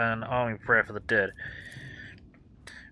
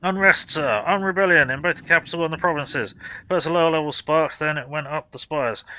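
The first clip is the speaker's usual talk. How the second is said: barking warden sergeant. Acted. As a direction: play a harried frontline sergeant yelling at newcomers. Sergeant briefing.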